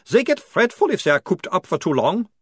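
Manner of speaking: very high, loud vampire voice. A narrator's reading. Otto asks the sergeant where they go, high vampire voice. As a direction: ask it in the high strange vampire voice.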